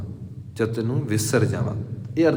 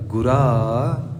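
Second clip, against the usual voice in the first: ਗੁਰਾ stretched very slowly with a rising call; pause on the word; much slower than usual. Shown as a demonstration. Preacher stops on one word to show the pause. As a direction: stop and dwell on ਗੁਰਾ. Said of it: "ਇੱਥੇ ਗੁਰਾ ਦੇ ਉੱਤੇ ਰੁਕਣਾ ਪਏਗਾ".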